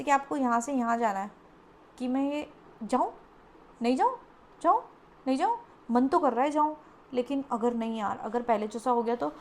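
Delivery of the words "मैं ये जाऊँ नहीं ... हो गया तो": rising little questions with pauses between; acted fearful hesitation. Reader acts out client afraid to step forward, fearful hesitation. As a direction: imitate someone wavering nervously over each step. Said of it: "वो डर है".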